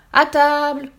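loud, high yell; howled battle cry. A narrator's reading. Ogre pouncing on a toe to bite it, howling. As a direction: howl it as you pounce. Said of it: "Il sauta dessus en hurlant".

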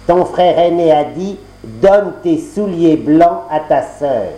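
marâtre, lente et un peu plus aiguë; voix de la marâtre. Acted. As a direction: fais traîner la réponse, avec malice. La marâtre répond à Jeanneton. (marâtre qui trompe Jeanneton, ton lent et sournois)

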